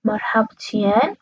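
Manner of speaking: مرحبتین said slowly, each syllable clear, Arabic h; teacher models مرحبتین slowly; Arabic greeting reply. Shown as a demonstration. Teacher to Persian learners, modelling the Arabic word slowly.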